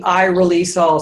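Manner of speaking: "I release all" punched firmly; emphasis on I release all. Shown as a demonstration. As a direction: lean into every word of "I release all". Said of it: "focus on I, the, the".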